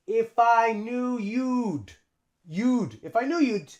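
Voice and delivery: "If I" linked as "iff-I"; "you'd" as one contracted syllable; linking. Shown as a demonstration. Teacher shows how we link, joined up. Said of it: "okay, so we link".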